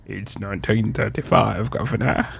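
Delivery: lightly voiced Cockney, barely shifted; a hint of Cockney; Cockney accent. Answering his wife's date correction, faint Cockney accent. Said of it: "that's what everybody said in nineteen thirty-five".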